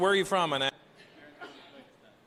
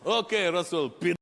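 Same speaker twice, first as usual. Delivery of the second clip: put-on giggling Russian accent; 4 semitones higher than usual. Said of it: "giggle like little kids".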